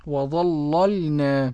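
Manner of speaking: "وظللنا" chanted slowly, first ل heavy; thickened first lam. Shown as a demonstration. Student repeats Warsh's reading, first ل of "وظللنا" thickened. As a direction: echo "وظللنا" with a dark first ل and light second. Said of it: "أغلظ اللام الأولى ورقق الثانية".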